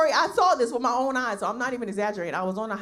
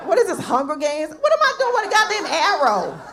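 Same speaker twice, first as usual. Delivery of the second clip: incredulous retort; 7 semitones higher, 5 dB louder than usual. Retold or imitated. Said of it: "I'm like".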